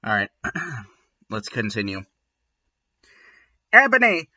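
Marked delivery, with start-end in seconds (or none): 3.7-4.3 mock shout, higher and a bit louder; overacted pleading yell; hammed-up shout. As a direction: call out like a melodramatic boyfriend. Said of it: "shouted Draco sadly".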